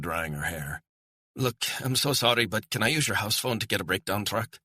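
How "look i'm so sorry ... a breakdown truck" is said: high, apologetic Scottish woman's voice; stranded Scottish woman, apologetic. Acted. Woman asks to use the house phone, apologetic Scottish voice. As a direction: ask a favour apologetically, pitched up.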